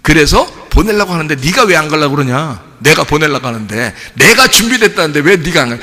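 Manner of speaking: mildly exasperated retold scolding; angry God. God demanding why Moses won't go, mock angry. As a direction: press the question with mock indignation. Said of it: "하나님이 화를 내는 거예요".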